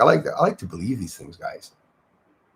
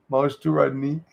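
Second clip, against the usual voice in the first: lightly voiced Cockney catchphrase; hint of a comic Cockney impersonation; Del Boy; 3 dB quieter than usual. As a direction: toss off a joking Cockney imitation.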